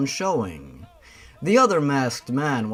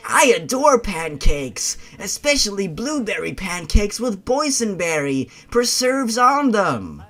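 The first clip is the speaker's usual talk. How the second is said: put-on girl voice; 5 semitones higher than usual. Girl answers, higher.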